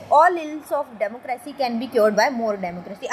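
each word laid out very slowly; slow quote reading. Shown as a demonstration. Teacher to students, reading a quote very slowly. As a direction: read the quote slowly and deliberately for the class.

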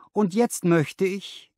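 a smooth businessman sizing up his new clerk; lightly voiced confident boss; Harry Pinner. A narrator's reading.

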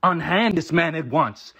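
slow, mock-heroic command; lightly voiced Good Samaritan dog; gallant puppy's voice. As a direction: order it like a noble rescuer. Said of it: "I assume it meant something like".

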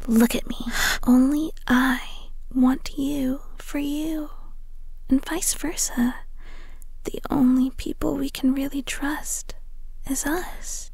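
soft, fading whisper; intimate whisper. Acted. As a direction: draw her close and reassure her.

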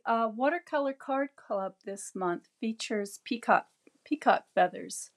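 raspy, voice nearly gone; hoarse voice. Real, not acted. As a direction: push through a failing voice. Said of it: "I'm losing my voice right now".

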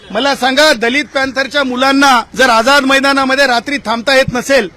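normal talking voice

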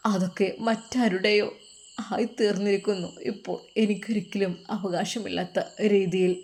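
subdued and halting; resigned, tearful son. Acted. Son saying his wish belongs to another, resigned. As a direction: give up quietly, pausing often.

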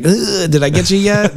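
mock-bored high taunt; bored scare actor. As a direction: needle a guest who's been scared for an hour.

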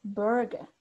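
Burger with no R at the end, like burga; non-rhotic Burger ending in an open a; Burger without the R. Shown as a demonstration. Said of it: "como que no pronuncia la R".

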